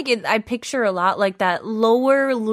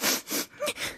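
teary sniffle sigh; 12 dB quieter than usual. Retold or imitated.

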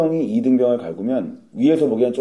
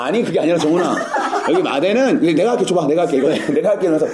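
flustered, slightly raised placating voice; clumsy cover-up acting; 4 semitones higher than usual. Private calming recruit as seniors watch, flustered clumsy act. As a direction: hastily hush the recruit with awkward reassurance. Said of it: "어설픈 연기를 해".

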